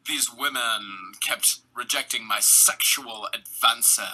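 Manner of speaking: slow, low sulky complaint; mock whiny Rodger. Host mimicking the killer, slow low sulking. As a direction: drag out the self-pity. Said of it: "he kept saying".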